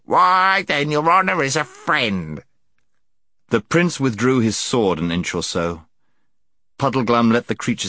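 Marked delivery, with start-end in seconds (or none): 0.0-2.4 high-pitched delighted relief; relieved gnome. A narrator's reading. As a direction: exclaim with relief in a squeaky voice. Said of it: "huge sigh of relief and added".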